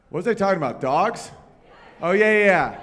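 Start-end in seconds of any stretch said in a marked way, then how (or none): none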